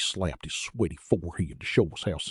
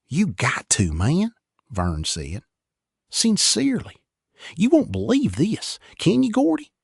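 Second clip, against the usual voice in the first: high loud urgent plea; urgent pleading; 12 semitones higher, 5 dB louder than usual. Acted. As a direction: beg them, all worked up.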